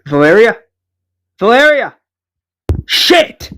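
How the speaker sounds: rising from a question to a high cry; acted panic, pitch leaping up; alarmed calling. Enid calls Valeria back on radio, alarmed.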